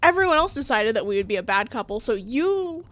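indignant rant, gathering speed; mock yelling. Imagining yelling at the boyfriend who broke up, indignant. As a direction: tell him off, worked up. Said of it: "Oh, I would yell at him".

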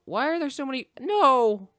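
high cry rising to a loud "no"; hammed-up overwhelmed yell; mock panic. Overrun by enemies in the game.

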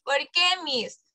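a whispered why, miss; whispered question. Retold or imitated. Student whisper imitated. (susurrando ¿por qué, miss?)

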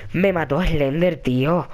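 slow, low, deflated; resigned. Real, not acted. Player accepting that Slender killed him, resigned. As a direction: let it sink down slowly in defeat. Repeats the loss, now resigned.

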